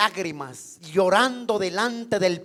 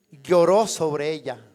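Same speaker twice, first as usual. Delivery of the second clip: "Lloró" said much lower and slowly, with a falling, weighty stress; emphatic lloró; 7 semitones lower than usual. Acted. Preacher to congregation, dwelling on the weeping: a low, slow "Lloró".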